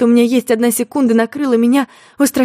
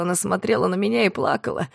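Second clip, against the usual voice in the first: ordinary delivery, nothing marked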